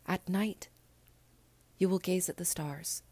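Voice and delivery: a hint of a small boy, gentle and certain; little prince. Little prince tells the pilot to wait for him, lightly voiced young boy.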